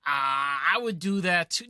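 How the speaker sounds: imitating a cocky bystander, drawn-out opener; mock bravado, lightly put on; cocky boast. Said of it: "most people are gonna be cocky".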